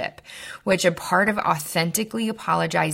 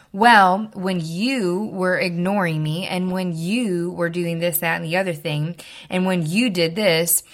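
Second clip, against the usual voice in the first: mock blaming; 3 dB louder than usual. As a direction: act out a finger-pointing non-apology, leaning on each "you". Example of blaming apology to avoid.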